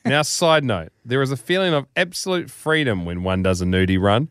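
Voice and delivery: measured, theatrical read-aloud; deliberate storytelling delivery; story narration. A narrator's reading. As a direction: read it like a grand tall tale.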